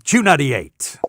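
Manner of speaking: radio jock call sign; radio station ID. Acted. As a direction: announce it like a station jingle tag. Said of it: "Used to be a station I worked at".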